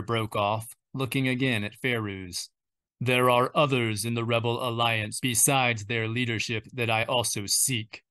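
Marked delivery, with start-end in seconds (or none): 3.0-8.0 understated hesitation under the menace; oddly reluctant. Acted. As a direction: hold back a little, a mild reluctant edge. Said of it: "his voice oddly reluctant".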